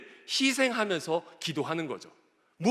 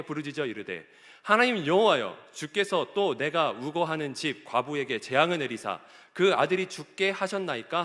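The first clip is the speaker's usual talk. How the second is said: scripture reading; 3 semitones lower than usual. Real, not acted. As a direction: read the passage out steadily. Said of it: "함께 읽어보도록 하겠습니다".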